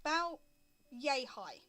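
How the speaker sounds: slow, paused game master narration; scene setting. Acted. Game master reveals tiny kilted men to players, scene setting. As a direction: unfold the scene slowly with suspenseful pauses.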